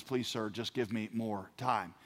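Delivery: low, soft, slow begging, no real sobs; retold tearful plea. Debtor begging in the courtroom, understated tearful plea. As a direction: plead quietly, understated. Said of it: "he begins to weep".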